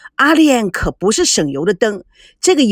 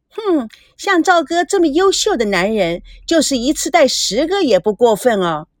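mock-sweet, teasing, higher at the start; honeyed fake sweetness to needle her; put-on sweetness; 5 semitones higher than usual. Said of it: "故作甜甜蜜蜜地说".

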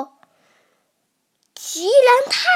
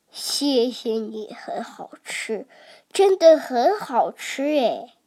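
tearful thanks; 5 semitones lower, 4 dB quieter than usual. Acted. Baby sobs thanks.

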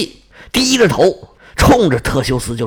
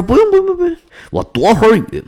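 hasty refusal; 7 semitones higher, much faster than usual. Acted. Theseus hastily declining hospitality.

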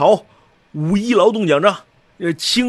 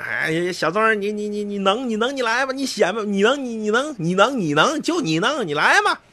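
mocking taunt; 5 semitones higher than usual. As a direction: tease him like a bystander with arms crossed. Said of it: "当年都还抱着膀看". (抱着膀看热闹，阴阳怪气地挖苦小曾)

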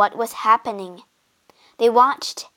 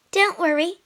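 brave; 8 semitones higher than usual. Acted. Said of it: "said Medea bravely".

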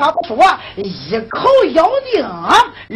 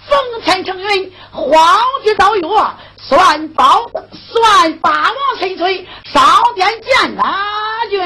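loud proclamation; 3 semitones higher than usual. Acted. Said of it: "应声大喊".

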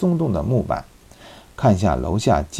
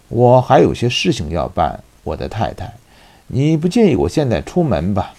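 casually probing. Acted. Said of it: "尽量不露声色地询问说".

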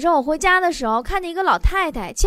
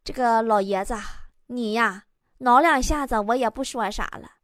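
aggrieved; 3 semitones lower than usual. Acted. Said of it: "很委屈的对老人家说".

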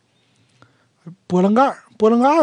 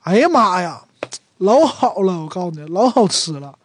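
Northeastern exclamation. Shown as a demonstration. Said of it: "这个东北人有几个感叹词啊".

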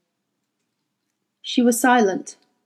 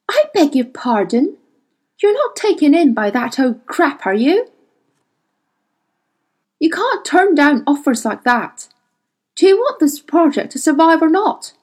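higher, indignant retort; 5 semitones higher than usual. Acted. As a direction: push back in disbelief.

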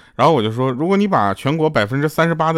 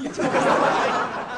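breathy laugh; 4 dB quieter than usual. Real, not acted. Laughs after the slap story.

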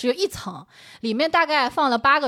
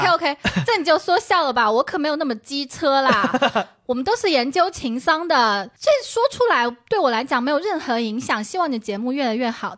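put-on Taiwanese accent; 2 semitones higher than usual. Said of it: "他是台湾腔".

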